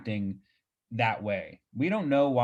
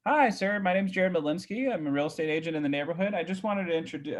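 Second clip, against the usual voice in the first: agent's sales greeting; 5 semitones higher than usual. Retold or imitated. Retelling his door-knocking sales greeting.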